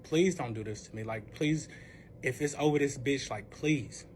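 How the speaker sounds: low, soft pleading; subdued imitation of begging while crying; retold tearful plea. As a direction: plead quietly, as if retelling tears. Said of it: "I'm literally sitting here crying".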